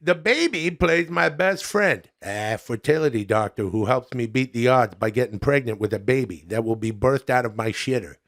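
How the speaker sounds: lightly voiced chummy comic reviewer; folksy buddy-to-buddy review, a little put on; Adam Sandler.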